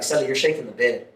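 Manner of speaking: low, soft quoted complaint; cellmate's first complaint. Retold or imitated. Cellmate wakes and tells his celly about the bed, low and quiet. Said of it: "my celly woke up and he's like".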